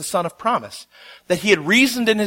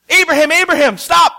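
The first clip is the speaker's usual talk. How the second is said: higher, loud urgent call; angel's shout; 9 semitones higher, 7 dB louder than usual. Acted. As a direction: yell to stop him mid-swing. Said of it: "the angel had to shout".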